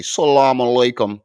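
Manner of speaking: imitating the clip's flat "Salaam alaikum"; mocking his version. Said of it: "I've never heard a Muslim say".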